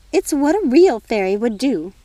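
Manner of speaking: a busy fairy godmother fussing over tea; fussy fairy godmother. Acted.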